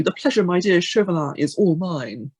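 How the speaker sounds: cool, lightly dramatic hero; mock-suave duelling retort; a touch of swashbuckling flourish; Scarlet Pimpernel. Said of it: "in a cool and dramatic way".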